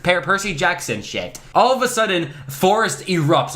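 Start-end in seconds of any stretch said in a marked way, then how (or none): 1.5-3.5 hammed-up dramatic reread, higher start; mock dramatic. Shown as a demonstration. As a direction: ham it up, pitch jumps high at first. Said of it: "Like, what is this, some volcano?".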